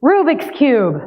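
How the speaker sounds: breathy whispered prompt. Acted. Guiding listeners into a feeling space, whisper. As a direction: hush it like a secret.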